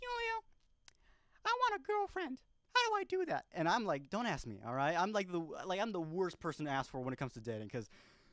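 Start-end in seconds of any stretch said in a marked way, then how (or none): 0.0-3.4 put-on very high-pitched, squeaky young boy's voice. Retelling what a kid he took under his wing asked him, imitating Mario's high-pitched voice. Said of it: "He had a very high pitched voice".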